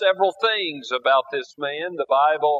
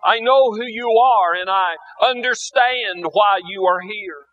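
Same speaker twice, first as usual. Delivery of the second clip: weeping plea; 3 semitones higher than usual. Acted. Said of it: "She begins to weep and declares".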